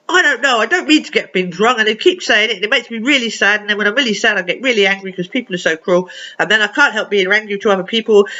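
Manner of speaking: acted rant that tumbles out; upset venting. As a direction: pour out the grievance in one run. Angry pours out his upset.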